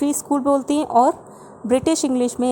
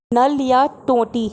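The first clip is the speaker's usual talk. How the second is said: spelled out slowly, word by word; teacher announcing the new word slowly; slow headword; slower than usual. Shown as a demonstration. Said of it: "next है".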